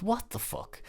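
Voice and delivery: high, breathy stunned disbelief; can't believe she's screaming again; exasperated disbelief. Retold or imitated.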